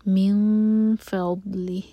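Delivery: مِن فَضْلِهِ with the ن of مِن hidden into the ف; hidden noon. Shown as a demonstration. Teacher shows the hidden noon in مِن فَضْلِهِ, slowly. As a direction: blur the ن of مِن nasally into فَضْلِهِ. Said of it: "من کا نون چھپایا جائے گا".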